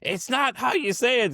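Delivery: high-pitched mock scolding; imitating annoyed ex-wife. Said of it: "Get mad every time I say it wrong".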